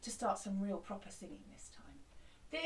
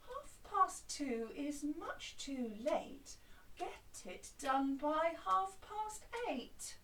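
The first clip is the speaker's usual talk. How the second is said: calm cobbler; 3 semitones higher, slower than usual. Shown as a demonstration. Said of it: "with a different voice".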